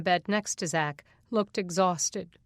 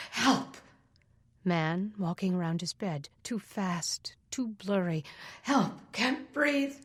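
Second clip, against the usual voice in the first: panicked cry; 3 dB quieter than usual. Acted. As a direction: gasp out for help. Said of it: "Panic tightened his chest".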